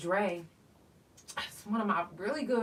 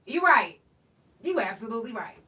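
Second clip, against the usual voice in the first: laughing concession; 4 semitones higher, 7 dB louder than usual. Retold or imitated. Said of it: "I was like".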